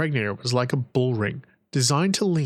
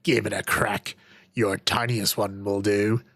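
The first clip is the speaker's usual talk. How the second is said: lewd; 5 semitones lower than usual. Acted. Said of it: "he said lewdly".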